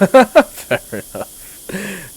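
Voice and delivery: slow laugh through the words; big laugh, then concede. Real, not acted. Laughs at a chat joke.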